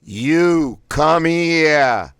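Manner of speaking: each word blasted high, loud and very slow; three words blasted. Shown as a demonstration. Voice exercise, "You come here" blasted word by word. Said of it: "Blast out all three words individually".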